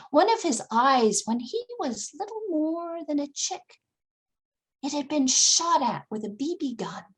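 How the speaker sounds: ordinary delivery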